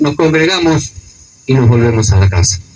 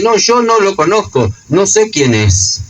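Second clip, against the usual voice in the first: sharp, raised protest with the first words pitched higher; irritated Peter insisting he never knew him; angry denial; 7 semitones higher than usual. Retold or imitated. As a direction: snap back, fed up with being accused. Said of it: "Pedro se enoja y dice".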